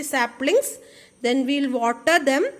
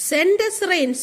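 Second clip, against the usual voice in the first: sobbing plea; 4 semitones higher than usual. Acted.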